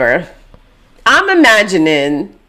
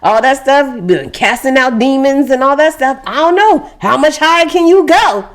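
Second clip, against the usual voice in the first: a lightly voiced, higher, gossiping disciple; chatty apostle; 5 semitones higher than usual. Apostle gossiping at the table about Jesus's miracles. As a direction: hype up the last miracle, half-joking.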